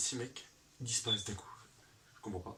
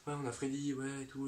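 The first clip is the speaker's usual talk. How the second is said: mock thugs cheering; 5 semitones higher than usual. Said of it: "ils font".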